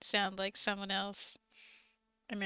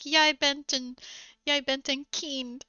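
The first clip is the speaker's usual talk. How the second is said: mock quarrel; 5 semitones higher, 6 dB louder than usual. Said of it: "if you're fighting with someone".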